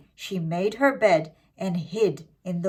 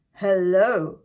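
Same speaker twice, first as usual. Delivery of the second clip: growl; 6 dB louder than usual. Acted. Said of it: "growled the wolf".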